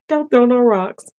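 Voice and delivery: teasing plea to viewers not to object; playful high call. Real, not acted. After laughing, teasing viewers.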